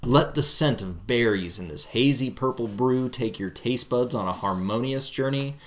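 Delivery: slow, smooth label read; beautiful voice read. Pretend. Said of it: "read the back of it with your beautiful voice".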